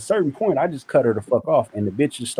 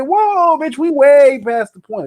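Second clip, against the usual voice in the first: high, louder outraged "Whoa, bitch"; outraged scold; 6 dB louder, slower than usual. Retold or imitated. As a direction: call her out, half-laughing. Scolding the laughing mother.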